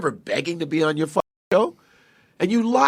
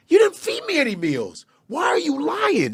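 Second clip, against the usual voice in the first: incredulous; 9 semitones higher than usual. Real, not acted. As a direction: pitch it up in outraged disbelief. Confronting a rival about lies.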